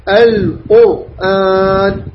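"القرآن" very slowly, R thick and vowelless; heavy silent R. Shown as a demonstration. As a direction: draw out "القرآن" syllable by syllable, R heavy. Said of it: "الراء ساكنة وقبلها مضموم". ("القرآن" ببطء مع تفخيم الراء)

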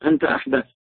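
a whispered temptation; whispering devil. Retold or imitated. Satan whispering doubts to a praying man, whispered. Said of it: "يأتيك الشيطان فيقول لك".

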